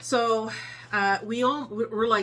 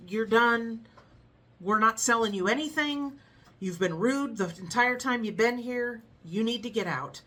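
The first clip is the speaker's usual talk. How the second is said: firm manager; 3 semitones higher, 3 dB louder than usual. Retold or imitated. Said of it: "And Matthew goes".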